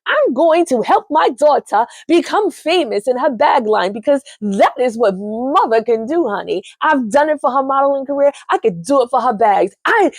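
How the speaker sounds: lightly voiced pushy stage mother; a hint of a doting mother boasting; Danny's stage mom. Mom telling Nicole she was born for this, lightly voiced.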